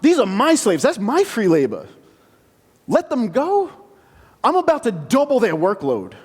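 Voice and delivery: scornful pharaoh. Acted. Egypt's leader refusing Moses, scornful and mocking. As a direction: brush off the demand with contempt. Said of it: "the Egyptian leader is".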